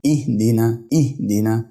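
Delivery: "اهدنا" as ih-di-na; "اهدنا" recited carefully with di in the middle; dal with kasra. Shown as a demonstration. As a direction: put a clear i after the dal in "اهدنا". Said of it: "حرف الدال مكسور".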